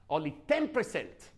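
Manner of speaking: "ten percent" set apart and punched; stress on TEN PERCENT. Shown as a demonstration. Trainer making a figure memorable, stress on "ten percent". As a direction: land firmly on "ten percent", falling at the end. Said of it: "how I say ten percent".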